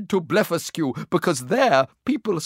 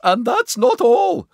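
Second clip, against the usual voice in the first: raised, louder urgent exclamation; crying out; 5 semitones higher, 5 dB louder than usual. A narrator's reading. Secretary warns Gulliver of more trouble, crying out. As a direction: cry it out with alarm. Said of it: "cried the secretary".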